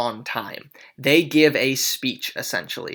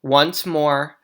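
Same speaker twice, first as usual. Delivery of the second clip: dramatic reading. Acted. The prince scolds both houses, a declaimed reading. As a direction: read it like a stern prince on stage. Teacher reads the prince's monologue.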